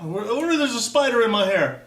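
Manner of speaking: high, loud re-enacted panic; mock panicked yelp; freaking out. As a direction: act out a freaked-out little kid's reaction. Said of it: "I was freaking out".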